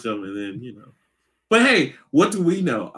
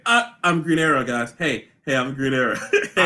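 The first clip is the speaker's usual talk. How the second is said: mock Green Arrow; 5 semitones lower than usual. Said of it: "At least Green Arrow didn't say".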